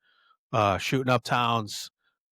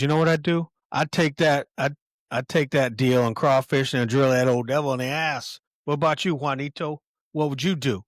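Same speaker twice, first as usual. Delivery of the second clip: higher, louder, loose boozy taunting; drunk Curly Bill; 3 semitones higher, 4 dB louder than usual. Retold or imitated. Drunk gang leader needling Ringo, louder and loose. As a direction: play it a few drinks in and showing off. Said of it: "he's either drunk or high".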